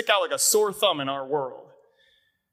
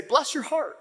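light Georgia kindness, meant honestly; sincere bless your heart; 8 semitones higher than usual. Retold or imitated. Pastor quoting Georgia folks, sincere and kind. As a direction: say it like you truly mean it. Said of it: "And they actually mean it".

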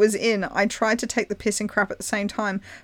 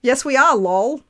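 joking reply; 6 semitones higher, 6 dB louder than usual. Retold or imitated. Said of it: "And I jokingly".

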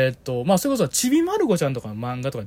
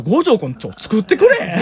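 cute request; 7 semitones higher, 7 dB louder than usual. Retold or imitated. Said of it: "めっちゃ可愛らしい言い方する".

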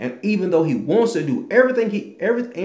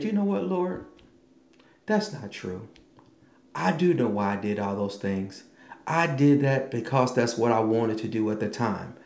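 sincere confession; 4 semitones lower than usual. Retold or imitated. Honest confession to God.

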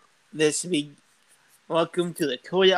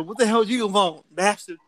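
higher-pitched playful anger; mock outrage; 3 semitones higher than usual. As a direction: confront the intruder, hammed-up. Acted quarrel with British intruder.

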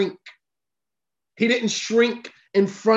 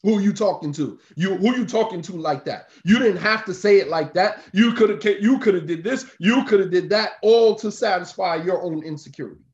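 mock defensive snap. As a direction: play the insecure husband bristling at her tone. Insecure man snapping back at woman.

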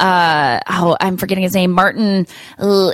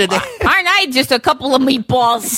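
silly voice; 8 semitones higher than usual. Pretend. Joking voice while laughing.

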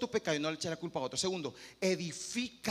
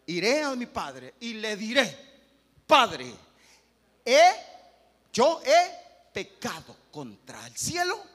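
loud, slow, pleading confession; prodigal son's plea; 3 semitones higher, 12 dB louder, slower than usual. Acted. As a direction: cry it out to the father, slowly. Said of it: "¿Y qué dijo el hijo pródigo?".

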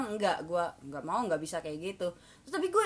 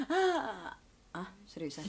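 mock laugh fading to a soft question; imitated laugh petering out; laugh turning doubtful; 4 semitones lower, 5 dB quieter, slower than usual. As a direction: let the put-on laugh die, then ask quietly. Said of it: "kita tuh ketawa-ketawa gitu".

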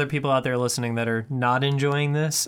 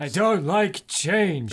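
lightly voiced grumpy old man; a touch of a cranky grandpa, slow; 3 semitones higher, slower than usual. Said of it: "old man voice".

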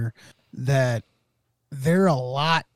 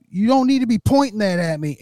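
higher, pointed objection; retold protest; 7 semitones higher, 4 dB louder than usual. Filmer to officer with gun pointed at him, retold protest. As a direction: imitate a man objecting to the officer.

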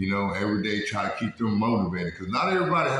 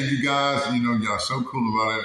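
echoey room sound; speaking in an echoey room; echo in small room. Real, not acted. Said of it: "I apologize for the echo in here".

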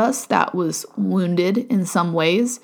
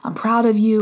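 put-on higher, gentle reassurance to a small child; soothing a child; 3 semitones higher, faster than usual. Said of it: "you would probably be very compassionate to that child".

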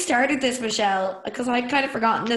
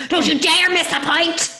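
slow, higher, drawn-out scolding; mock stern father; 7 semitones higher, slower than usual. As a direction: play a pushy football dad. Imagined father scolding child.

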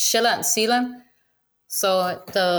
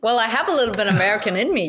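laughing; 3 semitones higher, faster than usual. Real, not acted. Laughs at her own joke.

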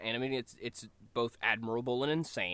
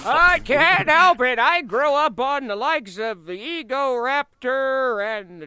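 laughing defensively; 14 semitones higher, 13 dB louder, slower than usual. Real, not acted.

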